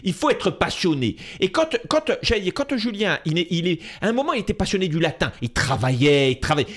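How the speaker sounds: hammed-up Corsican dad voice; imitating his Corsican father. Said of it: "je réponds avec mon père".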